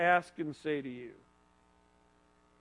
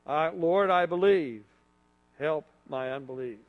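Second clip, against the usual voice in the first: heartfelt plea; 4 semitones lower than usual. Shown as a demonstration. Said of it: "say it with the feeling that you might have".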